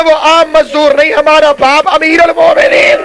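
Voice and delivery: impassioned preacher voicing a grieving son; anguished climax, as retold from the pulpit; Hasan's retold cry. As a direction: proclaim it as a mournful revelation. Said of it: "حسن رو کے کہتے ہیں".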